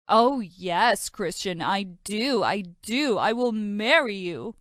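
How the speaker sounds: mock her dreamy yes; mocking imitation. Brother teasing his sister by mimicking her. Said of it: "My stupid brother teased me".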